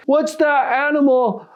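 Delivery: high-pitched imitated teenager; eager teen. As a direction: play a teen fishing for the word. Acting out teen trying to trick.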